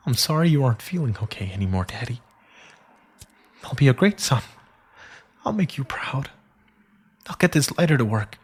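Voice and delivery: high, fast, pleading through tears; a son promising his dead father, voice cracking; tearful boy's promise. Acted. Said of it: "hoping it would stop me from crying".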